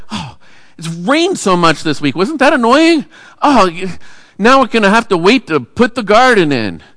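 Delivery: mock-annoyed churchgoer moaning about the weather; mock complainer. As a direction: play a fed-up grumbler. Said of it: "what do we complain about".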